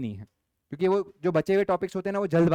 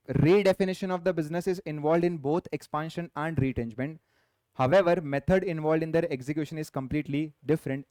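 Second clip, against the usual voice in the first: slow, deliberate dictation of an exam question; much slower than usual. Acted. Teacher dictating a case question to the class, slow and measured. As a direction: read each phrase slowly so students can write.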